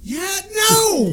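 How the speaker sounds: sudden high yelp of pain. Real, not acted. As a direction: cry out as the heat hits. Hot pepper pain, asked if burning.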